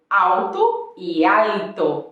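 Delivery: first alto as awto, second with a clear L, slow; Portuguese vs Spanish L. Shown as a demonstration. Teacher contrasts Portuguese awto with Spanish alto. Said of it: "você vai ver diferenças".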